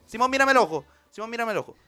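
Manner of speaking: mírame el ojo drawn out very slowly; slow deliberate plea. Acted. Negotiator repeats the plea to Simón, very slow. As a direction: stretch every word of the plea. Same words again, slowed.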